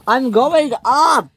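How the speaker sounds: slow, high, loud yell; screamed. A narrator's reading. Ferdinand as Bash shoves him, screamed. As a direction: scream it out, stretching the words. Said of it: "screamed Ferdinand".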